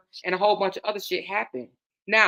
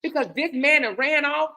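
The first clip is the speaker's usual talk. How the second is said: higher, louder, slow and deliberate scolding; stern; 5 semitones higher, 4 dB louder than usual. Retold or imitated. To her heartbroken friend, a stern, slow, raised-voice scolding. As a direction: lay down the law, word by word. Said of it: "But then I got stern".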